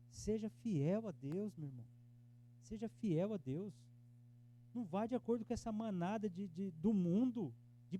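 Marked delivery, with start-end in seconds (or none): 0.1-3.7 slow, drawn-out plea; slow exhortation. Acted. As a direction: lean on each word slowly. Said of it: "slow exhortation". (exortação lenta e pausada)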